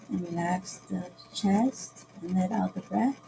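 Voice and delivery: measured meditation lead, long silences between cues; unhurried breath-by-breath guidance; guided meditation. Acted. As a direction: give sparse breathing cues, leaving room for each breath.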